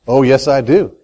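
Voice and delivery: low, understated insistence; assured answer. Real, not acted. Answering his own rhetorical question.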